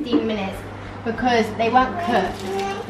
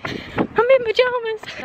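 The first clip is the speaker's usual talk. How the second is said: high, drawn-out disbelief; exasperated; 11 semitones higher, slower than usual. Real, not acted. Running past strangers in pajamas, high exasperation. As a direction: stretch it out in embarrassment.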